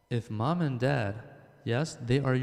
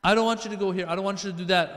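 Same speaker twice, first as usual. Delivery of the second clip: forbidding mom; 5 semitones higher, 4 dB louder, faster than usual. Retold or imitated.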